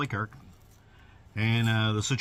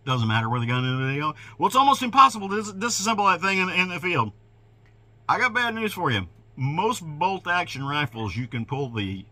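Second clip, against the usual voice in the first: normal talking voice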